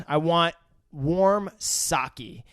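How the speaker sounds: very slow, measured request; careful slow order. Retold or imitated. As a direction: spell out the order word by word. Quotes customer ordering carefully.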